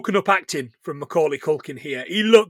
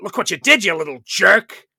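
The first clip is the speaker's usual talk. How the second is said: upset uncle; 3 dB louder than usual. Retold or imitated. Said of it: "this is Uncle Frank getting upset".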